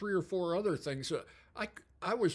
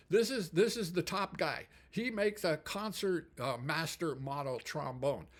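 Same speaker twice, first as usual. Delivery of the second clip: Japanese factory host. Retold or imitated. Host introducing the top craftsman, imitated Japanese accent. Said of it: "He said".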